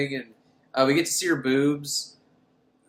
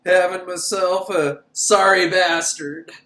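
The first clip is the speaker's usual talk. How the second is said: slowing into a lightly put-on drawl; a hint of a lonely undertaker, dragging out the end; lightly voiced Tall Man; 4 dB louder than usual. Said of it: "He's like".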